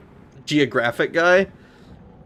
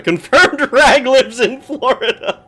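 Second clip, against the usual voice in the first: laughing it out, higher and louder; 10 semitones higher, 5 dB louder, slower than usual. Real, not acted. Streamer laughing as they read the chat comment. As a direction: read it through real laughter.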